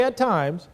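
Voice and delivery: "at times" set apart before a long pause; stress on "at times". Shown as a demonstration. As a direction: hold off after an emphasized "at times". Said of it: "So I say".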